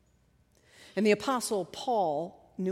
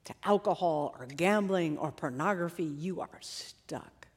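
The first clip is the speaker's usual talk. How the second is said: low, hushed, sinking inner voice; quiet, heavy verdict of hopelessness; voice of condemnation; 6 semitones lower, 8 dB quieter than usual. Acted. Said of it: "This is the voice that says".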